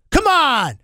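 high, loud disbelief; incredulous. Acted. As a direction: act outraged at the number. Incredulous host mocking the line.

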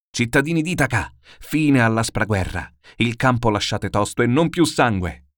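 loud divine command to the people; commanding cry. Acted. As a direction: goddess calling out to the citizens to stop. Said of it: "un grido messo".

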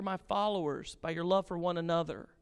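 hammed-up announcer hello; booming greeting. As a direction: stretch it like a showman's welcome. Mock greeting to followers.

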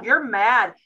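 lightly voiced coaching parent; walk the kid through calming down; coaching a child. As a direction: parent modelling stomping and bubble breaths. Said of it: "I'm like".

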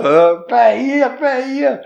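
very high, loud imitated calls, drawn out; hammed-up high holler, close to laughter; high-pitched mock calling. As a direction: call out in a comic high voice. Acts out calling during the match.

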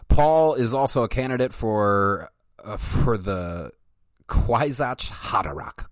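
reading aloud like an encyclopedia entry; steady, measured reading voice; methodical reading voice. Shown as a demonstration. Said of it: "in my melodical, methodical voice".

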